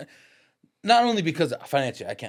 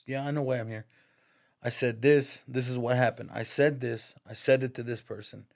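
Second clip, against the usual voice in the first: steady retelling of son's unwavering answer; matter of fact. Retold or imitated. Son owns up to the counselor, matter of fact. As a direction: own it plainly, voice steady. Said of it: "matter of fact".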